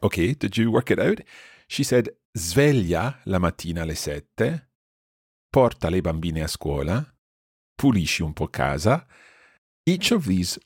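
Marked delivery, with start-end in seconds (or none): 2.3-9.1 careful Italian model, phrase by phrase; teacher quoting slowly for learners; slow repeat. Shown as a demonstration. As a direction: read each phrase out clearly with a pause after it. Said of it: "nice and slowly to help you understand".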